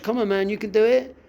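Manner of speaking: an encouraging coach, pumped up; coach's pep talk. Retold or imitated. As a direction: cheer yourself on like a coach. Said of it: "being like the coach".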